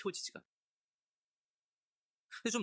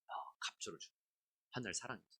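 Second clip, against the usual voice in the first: whisper; 7 semitones lower, 11 dB quieter, faster than usual. Real, not acted. Preacher answers own question softly.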